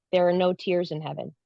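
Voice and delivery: plain, even statement of fact; matter-of-fact. Retold or imitated. Jesus answering the crying woman, matter-of-fact. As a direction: say it simply, without emotion. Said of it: "he just said it matter-of-factly".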